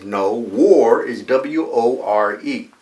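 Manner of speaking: loud, slow spelling in imitated Boston accent; Bostonian accent. Professor rejecting the student's answer, emphatic Bostonian accent. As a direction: correct the student firmly, Bostonian style. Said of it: "he came with his Bostonian accent".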